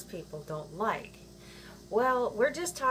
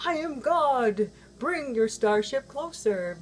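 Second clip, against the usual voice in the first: mock godlike voice; 4 semitones higher, 4 dB louder, slower than usual. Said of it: "the whole ending about the".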